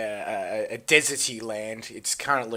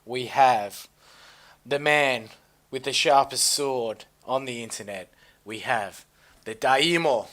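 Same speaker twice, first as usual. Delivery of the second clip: grand announcer; 4 dB louder than usual. Acted. Introducing the guest grandly.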